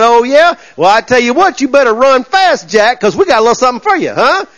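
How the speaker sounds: high, mock good old boy threat; defiant southern boys. Southern boys warning the king to run, high mock threat. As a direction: taunt him like a southern tough. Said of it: "them old southern boys wasn't gonna take".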